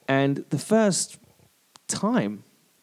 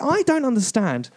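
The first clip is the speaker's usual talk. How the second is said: higher-pitched, exasperated rant; getting worked up; 4 semitones higher than usual. Real, not acted. Comedian ranting about bad live comedy, getting angry. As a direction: rant with mild, real annoyance. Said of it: "I'm getting angry now".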